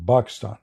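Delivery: Pakistan said as "Bakistan", b instead of p; Arabic pronunciation. Shown as a demonstration. Arab speaker showing that Arabic has no P, saying Bakistan. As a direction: swap the P for a B: Bakistan. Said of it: "We have Ba".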